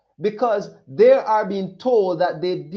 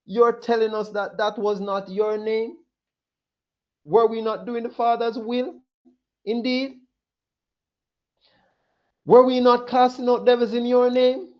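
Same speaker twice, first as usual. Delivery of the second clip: pitched-up, distraught questions; desperate pleading; 5 semitones higher than usual. Acted. The rejected clutching their heads before the Lord, distraught pleading. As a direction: hands on heads, begging. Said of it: "their hands are on their heads".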